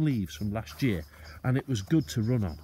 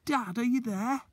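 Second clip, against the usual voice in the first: calling out; 4 dB louder than usual. Acted. Boy calling into dark forest.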